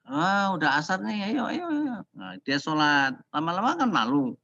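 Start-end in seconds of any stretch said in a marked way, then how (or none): 0.1-2.0 much higher, eager urging; lively mock summons; cheerful call to prayer. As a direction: gently hurry them off to pray. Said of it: "dia menunjukkan".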